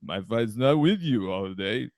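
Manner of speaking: slow, slurred boxer impression; Rocky. Playing Johnny Ringo facing Doc Holliday, as Rocky. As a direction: drag the words out like a dim, punchy fighter. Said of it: "we're rocking this back and forth".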